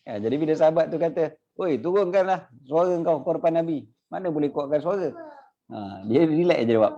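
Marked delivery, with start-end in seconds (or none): 1.6-5.1 high scolding call; high stern reprimand; stern rebuke. Retold or imitated. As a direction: tell him off sharply. Companion rebukes the Bedouin.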